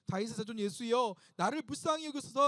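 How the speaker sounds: loud, rising cry for mercy. Acted. Blind beggar calling to Jesus for mercy, crying out. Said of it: "소리질러 이르되".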